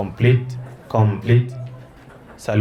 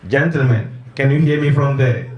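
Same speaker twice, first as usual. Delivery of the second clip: calling from far away; 3 semitones higher than usual. Real, not acted. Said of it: "the boys are all the way at the end".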